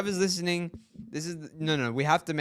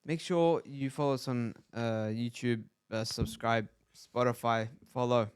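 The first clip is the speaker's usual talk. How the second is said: lower, simple caveman talk; 4 semitones lower, 4 dB quieter, slower than usual. Real, not acted. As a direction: grunt it out like a caveman. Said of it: "Why am I speaking like caveman?".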